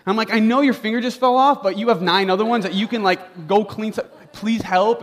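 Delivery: retold upset dad demanding help; upset outburst. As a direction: snap at the people who won't help. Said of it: "I started to get upset at the people around me".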